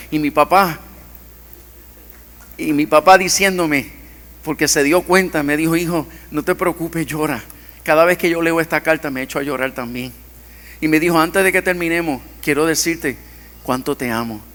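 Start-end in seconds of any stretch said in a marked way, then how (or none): 5.7-14.4 soft, loving father's words; tender father. Retold or imitated. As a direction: comfort a crying son gently. Father comforting crying son.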